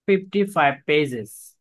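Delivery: fifty-five pages dragged out word by word; very slow. Shown as a demonstration. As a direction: spell out the number slowly. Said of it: "you have to practice".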